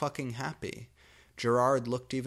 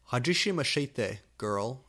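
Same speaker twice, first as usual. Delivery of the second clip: said happily; 3 dB louder than usual. Acted. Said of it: "she said happily".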